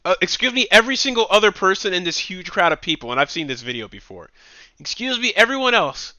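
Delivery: high, pleading mock protester; hammed-up prissy plea to the crowd; mock whiny complaint. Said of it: "What the hell is that?".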